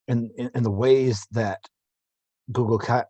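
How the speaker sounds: tripping over words; stammering restarts; stumbling over words. Real, not acted. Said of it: "Stumbling over my words".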